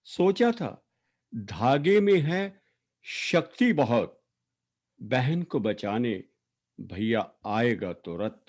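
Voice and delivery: measured verse reading with long pauses between phrases; poetry recitation. Acted. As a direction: recite an elegy line by line, letting each phrase stand. Recites own poem for late sister.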